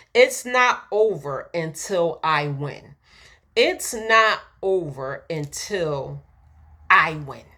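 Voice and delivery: slow and deliberate, pausing before "I win"; slow affirmation. Shown as a demonstration. Preacher leading the congregation in an affirmation, slow and deliberate. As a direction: let each word of the affirmation land slowly. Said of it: "you can say to yourself right now".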